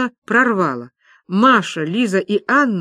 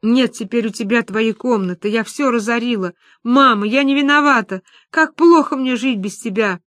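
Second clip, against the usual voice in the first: higher, anguished pleading; acted distraught lament; 3 semitones higher than usual. Люба talks to photographs of her family, distraught. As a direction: lament as if losing your mind. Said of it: "казалось, что она сошла с ума".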